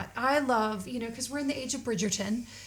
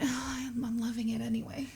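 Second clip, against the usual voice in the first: soft breathy whisper; 6 dB quieter than usual. Real, not acted. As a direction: whisper it to yourself. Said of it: "whispered aside".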